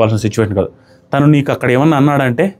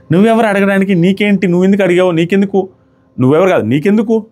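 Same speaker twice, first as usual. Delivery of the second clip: higher-pitched mock interrogation; string of indignant retorts, pitched up; imitated rude challenge; 6 semitones higher than usual. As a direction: act out a rude "who are you to ask". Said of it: "ఆ rude tone".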